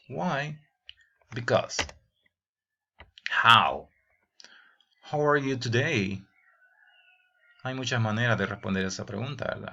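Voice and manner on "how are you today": breathy whispered question. Shown as a demonstration. Teacher whispering a model question.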